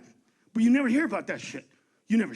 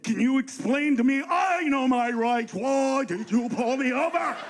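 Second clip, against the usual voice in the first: mock indignant driver. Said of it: "ask questions like we do".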